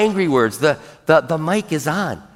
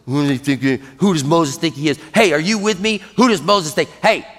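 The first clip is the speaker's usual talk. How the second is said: murmuring. Acted. Israelites rallying each other against Moses, murmuring. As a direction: start under your breath, then recruit others indignantly. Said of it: "were murmuring against Moses".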